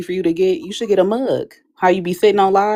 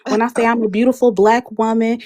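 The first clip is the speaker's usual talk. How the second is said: imitating a heated rant; 4 semitones higher than usual. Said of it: "You was like".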